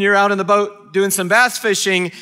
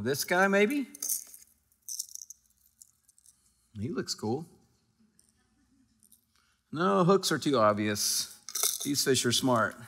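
fisherman thinking aloud; 6 semitones lower, 12 dB quieter than usual. Retold or imitated. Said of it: "you go".

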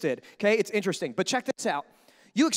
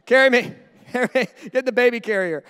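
mock-pleading, like a child begging to be carried; needy baby Christian; 5 dB louder than usual. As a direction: play a whiny believer wanting a lift. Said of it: "here's Christian".

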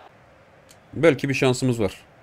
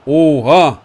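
startled oha; 6 dB louder than usual. Real, not acted. Gamer reacting to near goal.

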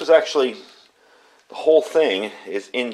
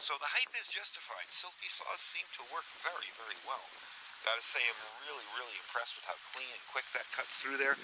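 windy outdoor recording, gusts on mic; talking outside with wind hitting the mic; 21 dB quieter than usual. Real, not acted. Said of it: "Apologies for the wind noise out here".

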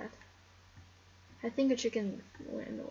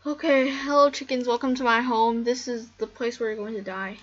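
mock evil host; 9 dB louder than usual. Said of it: "Because I'm just evil like that".

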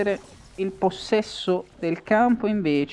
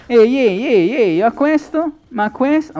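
surprised shouting; 7 semitones higher, 7 dB louder than usual. Real, not acted. Sudden surprise during match.

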